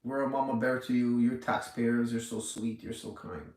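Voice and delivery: mock the government cooing at taxpayers; mock mama bear. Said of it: "They're trying to say".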